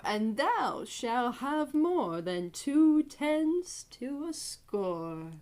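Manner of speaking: singsong list of maxims, slowing at the close; recited rhyming speech. Acted. Fool teaches nuncle a speech, singsong recitation. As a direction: chant the couplets with a lilt, then draw out the ending. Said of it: "I'll teach thee a speech".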